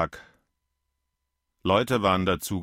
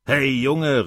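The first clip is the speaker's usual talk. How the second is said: put-on higher, calling after the boy; 5 semitones higher, 4 dB louder than usual. A narrator's reading. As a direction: shout a taunting hey. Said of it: "rief er". (dem Jungen hinterherrufend)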